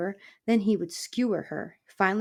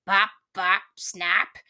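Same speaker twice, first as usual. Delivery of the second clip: cried out; 4 dB louder, much slower than usual. Acted. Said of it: "Aerith cried".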